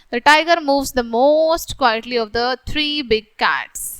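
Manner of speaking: slow, deliberate read-aloud of the example sentences; slow textbook reading. Acted. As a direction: read each word out slowly for the class.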